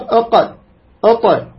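اق and اط, each closed then released with a bounce; qalqala letters. Shown as a demonstration. Teacher lists qalqala letters for his brothers, bouncing echo. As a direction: slowly bounce the final consonant of اق and اط. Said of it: "هذا الاضطراب هو القلقلة".

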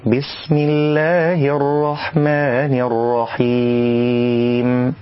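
slow, drawn-out chanted recitation; tajwid recitation. Shown as a demonstration. Teacher recites the correct basmala.

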